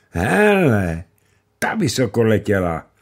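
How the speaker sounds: a bright little cry of wonder; excited exclamation. Acted. Mančinka calling to the others at the fire, excited. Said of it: "zvolala Mančinka".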